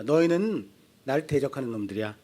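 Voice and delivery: low, soft stern rebuke; a hint of God scolding his people. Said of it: "하나님이 이스라엘을 향해서 말씀하세요". (낮고 조용하게 꾸짖는 하나님 목소리)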